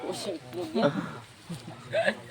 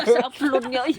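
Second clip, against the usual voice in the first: words breaking up with laughter; laughing; 4 semitones higher, 7 dB louder than usual. Real, not acted. Friend teasing another about his upload, laughing. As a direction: tease through loud, high laughter.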